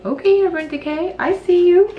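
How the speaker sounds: high, loud playful shout-out; excited. Real, not acted. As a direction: call out the brand with delight.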